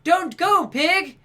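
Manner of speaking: loud, high monotone standing in for panic; hammed-up wooden cry, held on one high note; badly faked panic, high and toneless; mock Julia Roberts. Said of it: "she's supposed to be panicked".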